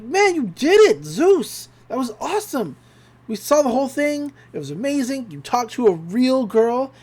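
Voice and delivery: excited congratulating. Retold or imitated. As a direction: gush like impressed kids, lightly acted. Twins cheer on Zeus's date success.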